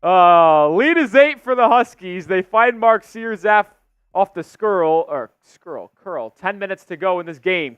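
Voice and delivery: live basketball commentary; play-by-play. Real, not acted. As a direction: call the game as it unfolds.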